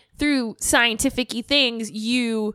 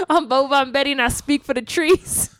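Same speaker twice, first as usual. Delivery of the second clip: lightly voiced Lorax; a hint of the Lorax; 3 semitones higher than usual. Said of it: "the Lorax accent".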